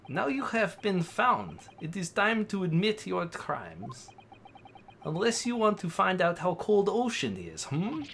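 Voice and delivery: put-on amateur Russian accent; Russian-accented interrogator. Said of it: "Oh, he's Russian".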